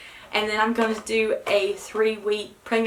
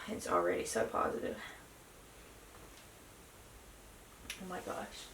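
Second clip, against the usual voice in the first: breathless whisper; 12 semitones lower, 16 dB quieter than usual. Real, not acted. Staring at positive test.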